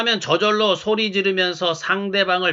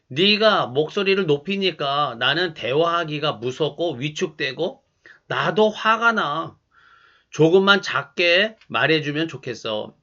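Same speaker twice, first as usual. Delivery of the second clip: calm and gentle; 3 semitones lower than usual. Shown as a demonstration. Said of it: "차분하게 이렇게 말해 보시기 바랍니다".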